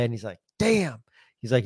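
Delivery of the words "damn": high, drawn-out retold damn; dismayed exclamation. Manager learning who used the bathroom, dismayed. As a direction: let it drop in mock dismay.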